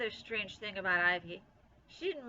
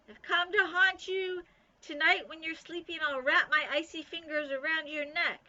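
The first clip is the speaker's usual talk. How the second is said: high, loud, scratchy ghostly threat; spooky ghost voice; 8 semitones higher, 6 dB louder than usual. A narrator's reading. Bean as a ghost threatens Ivy, scratchy and spooky. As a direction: menace her like a spirit in the night. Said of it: "made her voice scratchy and spooky".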